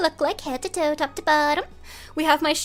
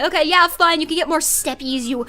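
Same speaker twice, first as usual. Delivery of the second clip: exasperated; 4 dB louder than usual. Acted. Exasperated giving in.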